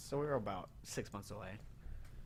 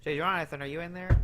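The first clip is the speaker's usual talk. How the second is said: calling out; 6 semitones higher, 9 dB louder than usual. Pretend. Calling through the corner door.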